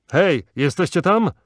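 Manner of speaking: high, loud hail; searching shout. A narrator's reading. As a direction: holler through an opening to find someone. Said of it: "krzyknął przez otwór".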